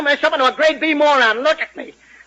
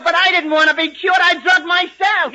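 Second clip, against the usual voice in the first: indignant protest; 3 semitones higher than usual. Acted. Songwriter angrily protesting the cure.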